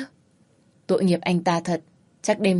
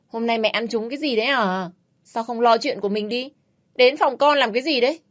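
annoyed; 5 semitones higher than usual. Acted. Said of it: "tôi bực bội nói".

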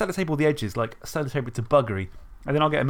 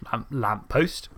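slight Isle of Wight twinge; twingy local accent; 2 semitones lower, much slower than usual. Shown as a demonstration. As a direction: add just a hint of Isle of Wight accent. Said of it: "in a slightly kind of twingy way".

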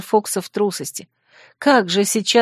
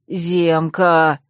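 lower, lost and helpless call of the name; bewildered bleat; 3 semitones lower than usual. Acted. Guilty fox calling his wounded friend, lost and helpless. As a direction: call him weakly, at a loss. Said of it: "растерянно блеял он".

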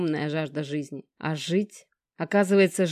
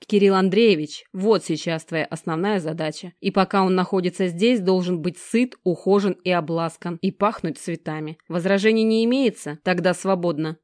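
louder, menacing orders; stern command; 4 dB louder than usual. Acted. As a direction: command her threateningly. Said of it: "грозно скомандовал".

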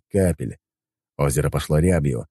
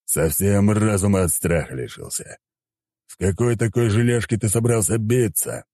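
haughty deity; 4 semitones higher than usual. Acted. Deity sneers at hero.

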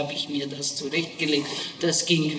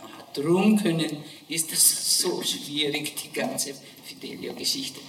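dawning realization. Retold or imitated. Realizes why it is hard.

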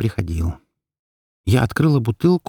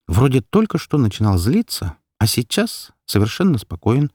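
ordinary delivery

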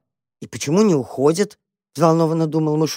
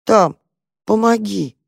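meek plea; 5 semitones higher, slower than usual. Acted. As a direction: ask timidly after confessing. Quiet guilty plea.

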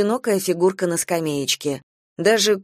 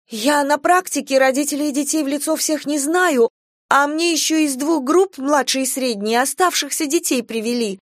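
put-on higher, nervous girl's voice excusing herself; a frightened young teacher making excuses; flustered young trainee; 7 semitones higher than usual. A narrator's reading. Young trainee anxiously justifying herself. (испуганная молоденькая воспитательница оправдывается)

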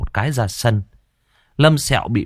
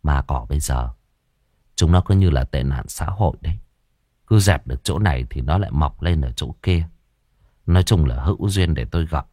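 low, musing character voice; pensive; 4 semitones lower than usual. Acted. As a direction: muse in a lowered voice, lightly played. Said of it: "Cậu Tẩy trầm ngâm nhìn ra xa xăm". (giọng trầm ngâm)

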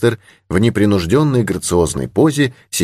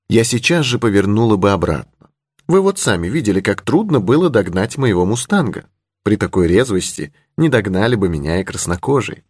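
put-on higher-pitched young heroine; lightly voiced young lady; 3 semitones higher than usual. Heroine boasting she would seek out Indians, lightly voiced young lady. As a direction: lightly raise the voice for a spirited girl.

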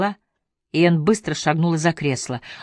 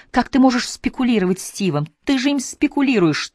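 higher, mock shout at his wife; 8 semitones higher than usual. A narrator's reading. Randall accusing Anne during the quarrel, a mild shout. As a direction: Randall hurls the accusation, a mild raised cry. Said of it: "крикнул Рэндалл".

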